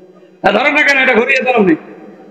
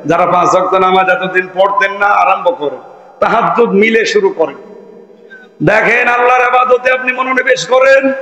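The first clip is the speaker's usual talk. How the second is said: fervent sermon voice; rousing Bengali waz preaching. Acted. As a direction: preach to the crowd with fire.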